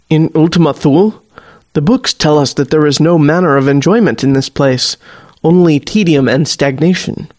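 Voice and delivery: a hint of a formal colonial soldier, solemn; measured and grave, like reciting from old books; lightly voiced stiff old-world officer. The warlock gravely warns Kat about Ultima Thule, lightly voiced formal officer.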